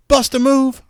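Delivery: hammed-up starstruck fan; excited lady. The fan on the boat shouts his song title, hammed-up and high.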